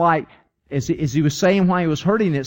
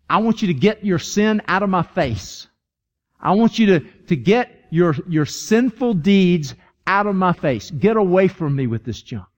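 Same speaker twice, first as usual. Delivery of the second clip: fed-up divine command, deliberately paced; stern rejection; 2 semitones higher than usual. Acted. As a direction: push each phrase away firmly. God rejecting sin, acted.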